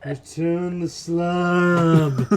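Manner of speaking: slow, looming curse voice; mummy curse voice. Acted. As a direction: intone like an ancient curse.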